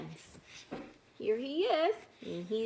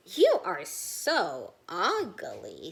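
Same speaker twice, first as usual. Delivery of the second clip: mean Little Circle; 4 semitones lower, 5 dB louder, slower than usual. Acted. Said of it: "says Little Circle".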